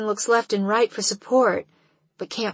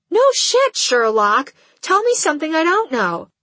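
sarcastic; 8 semitones higher, 6 dB louder than usual. Acted. Sarcastic friend retort.

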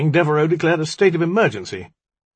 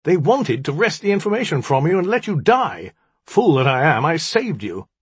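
higher, aggrieved outburst; heated cry; 6 semitones higher, 4 dB louder than usual. A narrator's reading. Magician blames the djinni for his ruin, crying out. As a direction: pour out the grievance, pitched up. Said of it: "he cried".

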